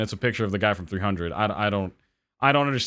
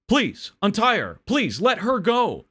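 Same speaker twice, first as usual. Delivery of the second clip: higher, slow begging; pleading; 9 semitones higher, slower than usual. Acted. Tied-up husband begs the burglar, slow and desperate. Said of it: "the man keeps pleading".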